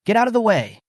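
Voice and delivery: loud, high warning shout. A narrator's reading. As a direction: yell it at the soldiers. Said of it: "he shouted to the soldiers".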